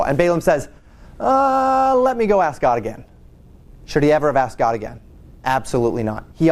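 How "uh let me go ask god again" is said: high, eager wheedling ask; a preacher mocking Balaam's greedy eagerness. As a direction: sound keen to get a yes. Balaam greedy, asking again.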